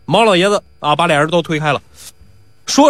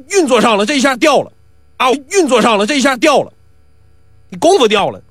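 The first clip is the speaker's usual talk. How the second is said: higher, cocky ruffian ranting; blustering bully; 5 semitones higher than usual. Acted. Pi Wu ranting at old Mao, cocky bluster. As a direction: bluster like a street thug caught out.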